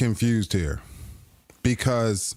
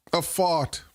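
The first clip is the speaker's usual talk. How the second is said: whispered; 4 semitones higher than usual. Acted. Whispered punchline.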